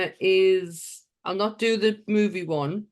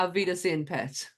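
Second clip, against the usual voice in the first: broad Geordie pronunciation of Auf Wiedersehen, Pet; native Geordie accent; 6 dB quieter than usual. Shown as a demonstration. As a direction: say it like a real Geordie. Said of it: "I'll do it in my native tongue".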